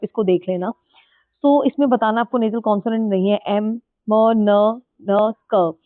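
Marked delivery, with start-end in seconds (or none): 3.5-5.3 एम, म, न, न said as humming nasal sounds; nasal sounds demo. Shown as a demonstration. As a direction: hum each nasal एम, म, न, न through the nose. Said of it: "ये सब nasal consonant, आप बोल के भी देख लीजिए". (नाक से एम, म, न, न की ध्वनि)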